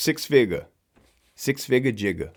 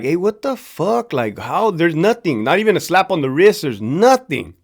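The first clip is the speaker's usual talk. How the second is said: upset cops. Retold or imitated. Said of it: "they would be very upset".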